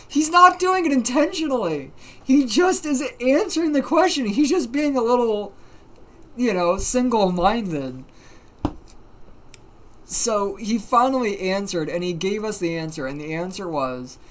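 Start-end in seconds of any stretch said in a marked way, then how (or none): 0.1-8.0 high, loud, just after cracking up; amused insistence. Real, not acted. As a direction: protest loudly through real amusement. Still cracking up, defending friend.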